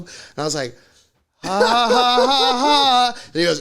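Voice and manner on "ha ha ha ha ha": fake laugh. Forced laugh at cop's prank.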